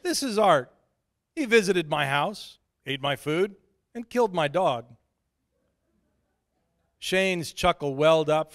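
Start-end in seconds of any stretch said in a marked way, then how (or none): 0.0-5.0 mock introduction. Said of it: "I could always say".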